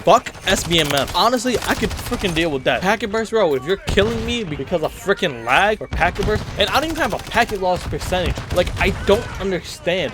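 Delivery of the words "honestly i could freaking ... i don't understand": higher-pitched, exasperated gamer rant; getting heated over a game problem; worked-up rant. Real, not acted. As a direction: vent in rising frustration, not quite yelling. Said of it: "I need to calm down".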